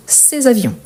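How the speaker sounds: "ces avions" linked with a z; teacher's joined-up "ces avions"; liaison. Shown as a demonstration. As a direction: run "ces" into "avions" through a z sound. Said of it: "Je fais la liaison".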